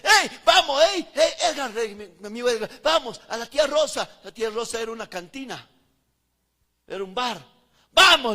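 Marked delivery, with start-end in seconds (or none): 0.0-4.2 mock invitation. 7.9-8.3 loud, higher "Vamos"; loud call. Retold or imitated. Retelling urging his coworker Edgar to the bar, loud call.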